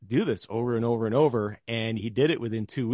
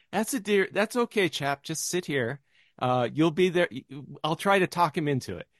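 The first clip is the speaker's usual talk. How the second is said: higher-pitched consoling secretary; mock soothing, pitched up; imitated kindly reassurance; 5 semitones higher than usual. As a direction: gently comfort a rejected auditioner, lightly acted. Retold secretary comforting rejected auditioner.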